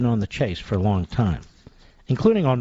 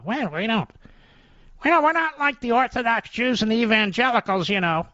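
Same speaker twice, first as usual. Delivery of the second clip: much higher, prissy mock of a smug liberal; mocking leftist voice; 11 semitones higher than usual. Radio host mocking liberals in a much higher, prissy voice. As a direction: sneer at them by playing one. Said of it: "they're proud of the fact that they don't have any morals".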